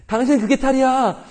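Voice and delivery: high, put-on wifely scolding. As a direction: snap at him as a fed-up wife, hammed up. Angry wife scolding apologizing husband. (남편을 타박하는 아내의 높은 목소리 흉내)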